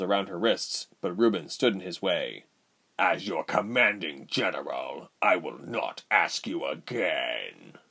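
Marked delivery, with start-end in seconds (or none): 3.0-7.8 raspy whisper. A narrator's reading. General threatens own soldier.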